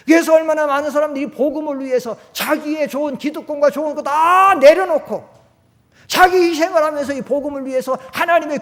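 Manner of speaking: loud, high, impassioned sermon voice; full-force preaching. Acted. Pastor exhorting the congregation, loud impassioned preaching. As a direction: preach it out, building to a cry.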